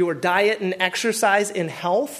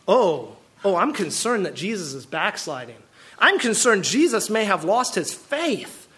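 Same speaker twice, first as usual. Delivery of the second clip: mock worried Pharisee. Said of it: "how the Pharisees must be feeling".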